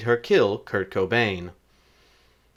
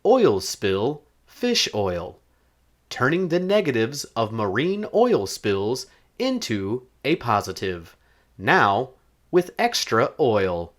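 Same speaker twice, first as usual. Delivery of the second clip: mock ad read. Host plugging fish oil made from oil spills, mock ad read. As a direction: read it as a parody commercial spot.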